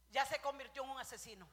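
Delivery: loud verdict. Real, not acted. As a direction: declare it with force. Repeats verdict, second time shouted.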